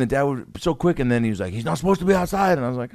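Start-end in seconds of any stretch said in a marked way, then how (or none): 1.5-2.6 lightly voiced, higher-pitched objecting dad; strict dad. Dad telling neighbor about his kid, mildly stern.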